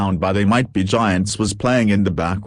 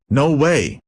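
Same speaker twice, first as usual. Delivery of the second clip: startled bird gasping; gasped surprise; 6 semitones higher than usual. Acted. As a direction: blurt it out in shock. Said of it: "the Playhouse Disney Bird gasped".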